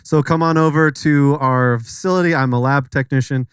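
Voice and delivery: a light put-on Asian accent. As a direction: play a lab tech with a faint Asian accent. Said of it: "I'll do an Asian accent".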